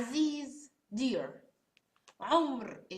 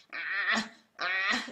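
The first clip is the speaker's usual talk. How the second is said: choked ah; 3 semitones lower than usual. Shown as a demonstration. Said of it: "just like you're choking yourself".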